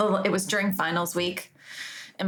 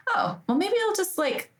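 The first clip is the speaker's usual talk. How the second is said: naive idea; 5 semitones higher than usual. Retold or imitated. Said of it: "I'm like".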